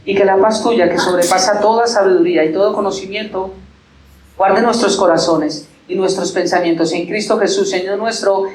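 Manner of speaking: earnest pastoral prayer to God; closing prayer. Acted. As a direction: pray over the congregation, slowing at the amen. (oración pastoral ferviente y pausada)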